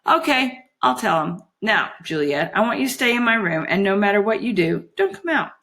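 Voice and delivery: lightly voiced fairy giving orders; Holly, coaxing. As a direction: instruct sweetly but firmly.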